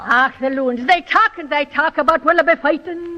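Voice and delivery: stage Irish brogue; Irish brogue for a student to copy; Irish washwoman. Shown as a demonstration. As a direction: demonstrate a typical Irish washwoman's accent. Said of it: "characteristic phrases".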